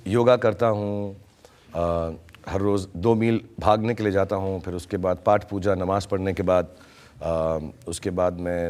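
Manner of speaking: low, halting, feigned saintly earnestness; mock pious. Mock-pious answer about his hobbies. (बनावटी संजीदगी, धीमा सुर)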